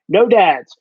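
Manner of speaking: punchier repeat of no dads. Retold or imitated. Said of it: "always just go".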